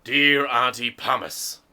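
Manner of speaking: disappointed voice. Acted. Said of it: "I'll read it in a disappointed voice".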